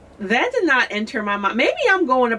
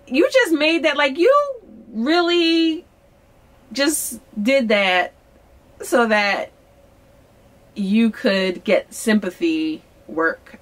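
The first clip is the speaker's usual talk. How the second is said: sceptical inner thought; 4 semitones higher, slower than usual. Retold or imitated. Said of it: "in my mind, I'm like".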